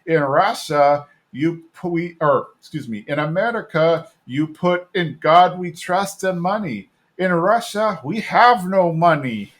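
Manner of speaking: light mock Russian accent, slow; hint of a Russian comedian's accent; lightly put-on Russian accent telling a joke. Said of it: "he even does the Russian accent".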